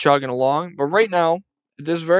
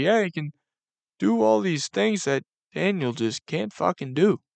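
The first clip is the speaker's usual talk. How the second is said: voice heavy with sadness, mournful; 4 semitones higher than usual. Imitating a coach at a press conference: imitating Daboll sounding sad. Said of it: "the sadness in his voice".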